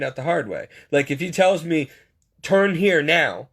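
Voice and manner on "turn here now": slow, deliberate imitated order; measured, drawn-out directive; slow command. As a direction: give each word weight, like a divine instruction. God giving a sudden command.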